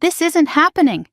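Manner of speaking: high, sharp spat words. A narrator's reading. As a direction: spit it out at them. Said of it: "Gavin spat".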